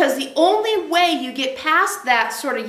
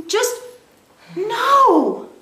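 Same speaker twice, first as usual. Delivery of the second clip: firm no; 8 semitones higher than usual. Retold or imitated. Emphatic refusal.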